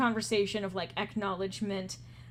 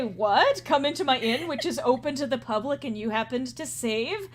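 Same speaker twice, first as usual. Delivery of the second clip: incredulous; 3 semitones higher, 4 dB louder than usual. Acted. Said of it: "he was starting to say".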